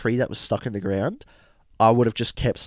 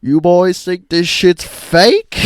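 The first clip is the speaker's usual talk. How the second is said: mock Carl; 7 semitones higher, 8 dB louder, much slower than usual. Imagined robot Carl.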